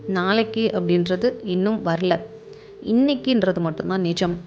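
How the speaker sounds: calm meditation guide, with long pauses between phrases; guided meditation. Acted. Guiding listeners to relax and observe their breath, calm meditation voice. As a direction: lead them gently through it, phrase by phrase, leaving room to breathe.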